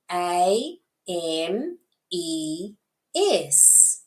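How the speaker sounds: A, M, E, S named in turn, rising; A, M, E, S as separate, lilting letter names. Shown as a demonstration. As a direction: point through A, M, E, S letter by letter. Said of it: "point and say the letter name".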